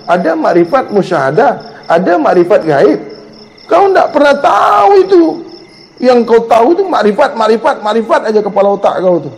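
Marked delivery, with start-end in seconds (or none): 3.7-5.2 scolding shout. Real, not acted. Preacher shouting at a student who knows too little. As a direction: bark it out to rebuke.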